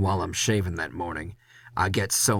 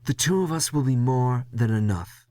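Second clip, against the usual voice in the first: higher, brushing-off boss voice; dismissive boss; 4 semitones higher than usual. Acted. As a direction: wave him off as the boss. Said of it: "Leslie dismisses".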